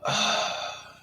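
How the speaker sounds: breathy disgusted ugh; disgusted unvoiced groan. Disgusted reaction.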